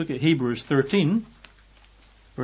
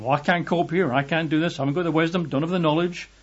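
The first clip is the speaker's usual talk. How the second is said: panicking; 3 semitones higher, faster than usual. Pretend. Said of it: "rather than panicking".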